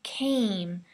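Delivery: came with a long, strong A; came, A held long and strong. Shown as a demonstration. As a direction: stretch the A in came. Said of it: "make sure that A is really strong and long".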